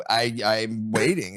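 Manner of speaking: slow, loaded mock-innocent phrasing; pointed tone. Partner claiming innocence about their tone, slow and pointed. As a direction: draw it out with pointed attitude. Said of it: "your inflection and tone matters".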